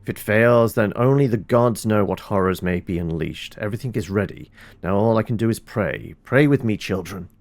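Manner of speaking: a hint of a solemn healer reading his journal; lightly voiced druid. A druid praying over sick children, lightly solemn. Reads game character's note aloud.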